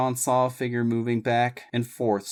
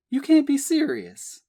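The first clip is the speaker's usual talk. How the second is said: high, loud disbelieving outburst; blurted out; 5 dB louder than usual. A narrator's reading. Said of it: "she blurted".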